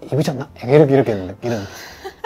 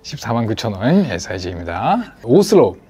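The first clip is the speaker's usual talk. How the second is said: shopping host voice. Pretend. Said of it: "이제 쇼호스트처럼 되고 있어".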